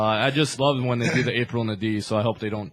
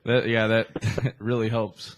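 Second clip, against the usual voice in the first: laughing; 2 semitones lower, slower than usual. Real, not acted. Sarcastic remark about sneeze.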